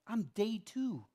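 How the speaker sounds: high, squeaky mock frustration; exasperated. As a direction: whine it up high like you can't believe it. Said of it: "I'm so mad".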